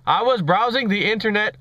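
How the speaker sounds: hammed-up Indian accent of a questioner; badly faked Indian accent; terrible Indian accent. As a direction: ask it in a mock Indian accent. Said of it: "my terrible Indian accent impression".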